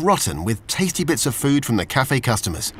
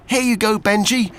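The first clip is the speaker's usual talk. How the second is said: higher, calling down to the water; shouting; 7 semitones higher than usual. Acted. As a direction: call down urgently but kindly. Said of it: "shouted Olivia".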